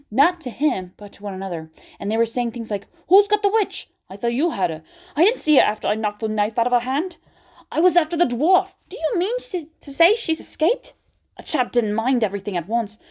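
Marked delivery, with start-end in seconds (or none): 3.1-10.9 high, loud startled voices; alarmed questions back and forth; confused rescuers. A narrator's reading. Rescuers searching for the witch, alarmed.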